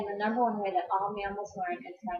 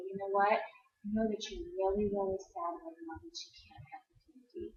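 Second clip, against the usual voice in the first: calm voice; 4 dB quieter than usual. Shown as a demonstration. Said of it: "in a really calm voice".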